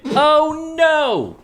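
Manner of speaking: high, loud dismayed cry. Retold or imitated. Out loud at the TV as the kid walks down the hall, a high loud oh no. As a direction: groan it out in horror. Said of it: "I out loud went".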